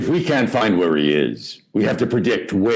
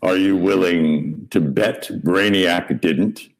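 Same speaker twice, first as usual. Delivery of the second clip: Batman line, first take. Shown as a demonstration. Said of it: "Try it again".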